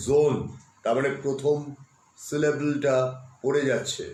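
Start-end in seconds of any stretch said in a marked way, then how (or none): 0.1-0.3 জোন said as one syllable jon; Tibetan pronunciation. Shown as a demonstration. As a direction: read আই জে ও এন as জোন. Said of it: "ও এন এর উচ্চারণ হচ্ছে". (তিব্বতী উচ্চারণ জোন)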